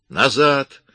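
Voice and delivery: sharp high yell; shouted command. A narrator's reading. Armed woman at the door, shouting. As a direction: bark the order to back off. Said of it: "закричала она".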